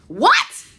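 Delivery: sudden high, loud disbelief; shocked what. Real, not acted. Pastor calls her up, she shrieks in shock. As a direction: gasp it out, stunned. Hearing her own name called.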